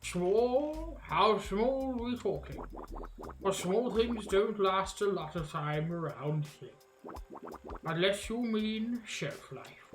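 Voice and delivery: drawling swamp witch, questions rising; incredulous alligator witch. Acted. Witch doubting the visitor has friends here, drawling scoff. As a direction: scoff as a lightly voiced old witch.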